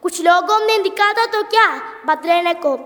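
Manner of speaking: declaimed Hindi poem with dramatic pleas; poem recitation. Acted. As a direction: recite it like a school competition poem, line by line.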